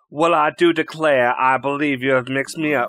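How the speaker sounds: put-on overdone Southern accent, grandly declaring; bad Southern accent. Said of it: "adopted a very bad Southern accent".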